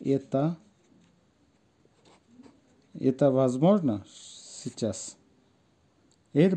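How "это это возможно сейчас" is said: halting word-by-word model, long pauses; pronunciation demo. Shown as a demonstration. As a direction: say it slowly in pieces for learners. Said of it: "আসেন উচ্চারণটা দেখি". (থেমে থেমে উচ্চারণ দেখানো)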